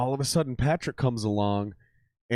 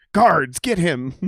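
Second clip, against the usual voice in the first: slow, haughty order to the guards; mock royal command; 5 semitones higher, 3 dB louder, much slower than usual. The king mocks his guards, slow haughty command.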